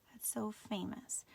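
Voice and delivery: slow little whisper to herself; whispered aside. Real, not acted. Teacher whispering an aside mid-lesson. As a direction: breathe it out as a private aside.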